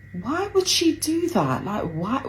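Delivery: hurt outrage rising on each why; indignant disbelief. Retold or imitated. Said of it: "I remember thinking in my head".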